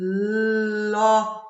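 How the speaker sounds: Cloth slowly, sounds pulled apart; slow exaggerated speech modeling. Shown as a demonstration. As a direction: segment Cloth, each sound held. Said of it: "modelling the word".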